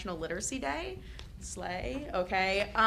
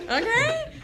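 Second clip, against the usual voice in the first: laughing. Real, not acted. Laughing at own age joke.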